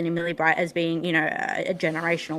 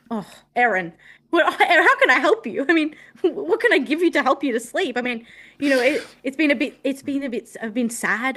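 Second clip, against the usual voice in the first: higher, sarcastic pity for the player; mock sympathy; 5 semitones higher than usual. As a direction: coo over her like a fake comforter.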